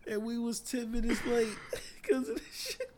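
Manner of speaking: high, squeezed voice giving way to giggles; cracking up on the last words; laughing while talking. Real, not acted. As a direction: struggle to finish through real laughter. Still laughing at own story.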